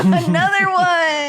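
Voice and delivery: high, drawn-out triumphant call; gloating announcement. Pretend. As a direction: crow it slowly after a laugh. Gloating over a second spell.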